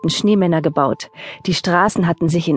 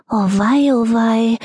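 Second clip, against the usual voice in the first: wailing; 5 semitones higher than usual. Acted. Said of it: "jammerte der Hase".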